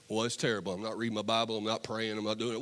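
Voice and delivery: lightly voiced struggling believer. Struggling churchgoer confessing to his pastor, mildly downcast. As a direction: mumble the excuse like a guilty churchgoer. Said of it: "People come to my office".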